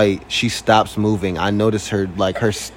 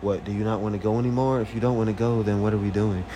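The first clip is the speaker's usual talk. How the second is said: snippy retort; 3 semitones lower, 6 dB quieter, faster than usual. Retold or imitated. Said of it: "And she's like".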